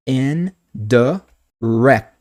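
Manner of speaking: "N, D, rect" in separate sounds; teacher sounding out each syllable of "rect" word. Shown as a demonstration. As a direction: break it into "N", "D", then a punched "rect". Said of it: "o primeiro é o som de E".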